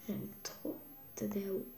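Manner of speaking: slow soft whisper. Real, not acted. Girl whispering her love for a globe. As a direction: breathe the name lovingly.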